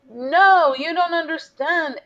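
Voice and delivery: loud, high desperate cry of protest; retold yell. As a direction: shout it back, refusing to be calmed. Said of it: "And she yelled at me".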